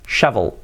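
shovel with a well-marked v; uve bien marcada. Shown as a demonstration. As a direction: press the v in "shovel". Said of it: "Así sería, con la V bien marcada". (shovel con la uve bien marcada)

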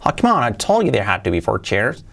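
exasperated reminder; as if scolding a friend who forgot; a touch of irritation; mock exasperated. Shown as a demonstration. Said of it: "le dais entonación".

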